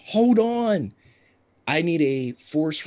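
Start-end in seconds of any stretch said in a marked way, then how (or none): 0.1-0.9 high, loud shout of warning; urgent yell. Acted. Driver yells to passengers as she turns the truck, urgent yell. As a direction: yell out a sudden warning, higher and louder. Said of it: "she yells".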